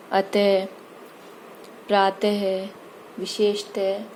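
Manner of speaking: "अतः, प्रातः, विशेषतः" each ending in an audible h; विसर्ग का उच्चारण. Shown as a demonstration. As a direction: sound the final ः of "अतः, प्रातः, विशेषतः" as a breath of "ha". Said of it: "है की ध्वनि निकलती है". ("अतः, प्रातः, विशेषतः" के अंत में ह की ध्वनि)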